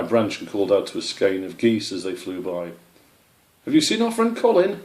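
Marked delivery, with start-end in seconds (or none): 3.6-4.8 high, louder call up to the sky. Acted. White Tip calls to geese flying overhead, loud and high. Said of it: "she called".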